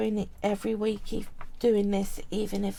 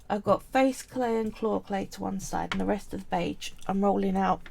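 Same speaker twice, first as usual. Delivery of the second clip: gravelly voice. Real, not acted. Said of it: "Sorry if my voice sounds a bit gravelly".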